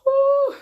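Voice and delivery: high, loud crying exhale; a real sob breaking through; crying whew. Real, not acted. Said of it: "I'm gonna cry again".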